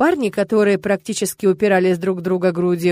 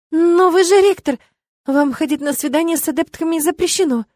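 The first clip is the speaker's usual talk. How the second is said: high, flustered babble; babbling; 7 semitones higher than usual. Acted. Flustered witch reminding the rector of the rules, high babble. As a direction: babble it out in a rush. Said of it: "пролепетала я".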